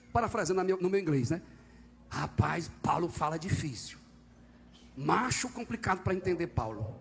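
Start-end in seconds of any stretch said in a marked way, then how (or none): 2.1-6.9 put-on Cearense accent. Preacher paraphrasing Peter for the church, in casual Cearense. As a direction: voice Peter as a plain-spoken man from Ceará. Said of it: "ia dizer que era cearense".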